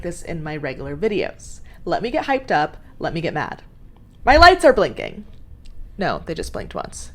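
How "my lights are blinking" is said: high, loud annoyed exclamation; alarmed outburst. Real, not acted. Vlogger noticing her lights blinking, loud annoyed alarm. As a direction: call it out sharply, high and loud.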